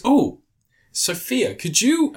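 high, lilting call to a servant; lightly voiced plea to the witch; mock posh request. Quoting Hugh Grant asking Sophia for help, high lilting.

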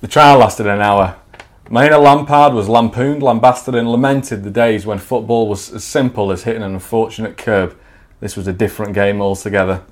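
measured storyteller voice; story narration. Acted. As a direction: read it like a comic memoir. Reads his story aloud.

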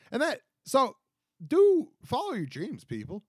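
high, loud, rallying shout; pep-talk it to the crowd; hyped-up. Pretend. Mock rallying call to dreamers.

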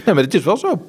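chuckling through a quick high no; amused, laughing yes it's so. Real, not acted. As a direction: laugh it off while agreeing. Laughing agreement after joke.

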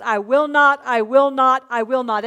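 preacher stressing the promise; emphatic repetition. Shown as a demonstration. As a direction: hammer home the repeated not. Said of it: "he's doing it to stress it".

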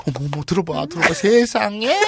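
fussing, scandalized housewife; hammed-up neighborhood gossip; gossipy ajumma. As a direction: build up to a high "oh my goodness". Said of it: "막 완전 아줌마들 그거 있잖아요".

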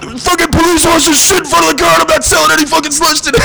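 high, laughing complaint; exasperated rant. Retold or imitated. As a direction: vent to the boss, half laughing. Ranting on phone to owners.

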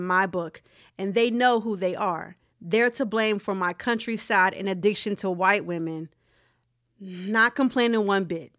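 steady, measured read-aloud; reading a post aloud. A narrator's reading. Podcast host reading a man's Facebook status to listeners, read-aloud voice. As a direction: read the written status out evenly, lightly emphatic.

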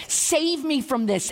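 high, slow plea with a touch of fear; fearful plea. Acted. Human Jesus asking to be saved, mildly fearful. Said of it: "The human part of Jesus is fearful".

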